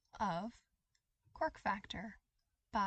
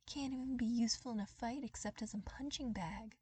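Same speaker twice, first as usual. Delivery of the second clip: jeering whisper; 4 semitones higher than usual. Acted. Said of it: "they jeered".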